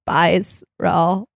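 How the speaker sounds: shrill creaky fry; shrill vocal fry voice. Shown as a demonstration. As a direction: creak it out shrilly so men tune out. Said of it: "I'll say it in my shrill, uh, vocal fry voice".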